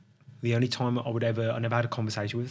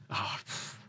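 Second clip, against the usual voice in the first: shaky breath out; 10 dB quieter than usual. Real, not acted. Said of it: "I can feel that, that emotion".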